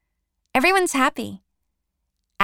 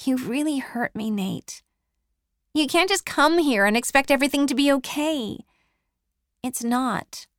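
higher, hurt reproach to an ex; hurt and pleading; 5 semitones higher than usual. A narrator's reading. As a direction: voice rising with old pain. Bronwyn tells Nate he hurt her.

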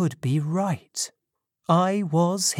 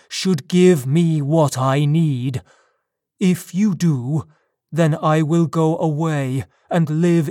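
a hint of a menacing creature; demanding creature; 4 dB louder than usual. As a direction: press the demand firmly, as a lightly played monster. Creature threatens its maker.

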